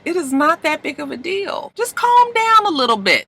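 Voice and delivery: soft, high-pitched soothing; calming her down. Retold or imitated. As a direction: imitate gently talking someone down. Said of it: "tries to bring her down".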